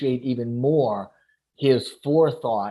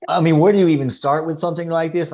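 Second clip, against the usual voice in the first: excited burst; 4 semitones higher, 5 dB louder, faster than usual. Real, not acted. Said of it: "man, it, it was phenomenal".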